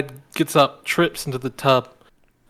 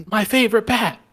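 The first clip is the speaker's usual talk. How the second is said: higher-pitched mock exclamation; mock outraged dad; 8 semitones higher than usual. Podcaster acting out a dad over his bat, mock outrage. Retold dad's outcry in film plot.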